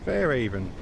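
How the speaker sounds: "Fairhaven" said as fair-AVEN, the h dropped; silent H. Retold or imitated. Streamer echoing the train announcement he likes, silent H. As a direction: repeat "Fairhaven" without any h sound. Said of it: "Silent H".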